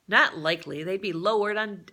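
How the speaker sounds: growling monotone. Acted. Grinder answering the fisherman about passengers, growling monotone. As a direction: grumble it out in one flat line. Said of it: "growled Grinder in his monotone".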